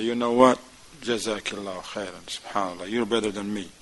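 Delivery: low, soft admission from a humbled husband; mock-tearful gratitude, understated; humbled, moved. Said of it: "he may even break into tears".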